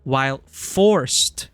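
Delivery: a stagey British narration of the speech; generic British accent. Shown as a demonstration. Streamer reading the game speech in a generic British accent. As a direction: voice actor British read. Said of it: "voice actor voice".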